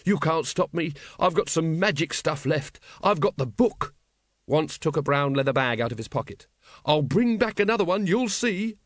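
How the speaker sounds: high, agitated threats; worked-up, high-pitched defiance; frantic villain. Acted. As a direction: threaten him with mounting hysteria. Wonse threatens the patrician wildly.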